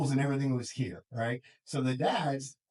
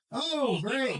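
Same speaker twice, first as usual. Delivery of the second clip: sarcastic oh great; 11 semitones higher than usual. Retold or imitated. Mocking kid's sarcastic reply.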